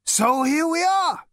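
slow, high, hesitant drawl. Acted. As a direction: trail out unsure. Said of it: "said Zaphod hesitantly".

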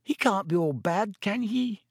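unsure, pleading a little; young girl voice. A narrator's reading. Hannah doubting, girl voice.

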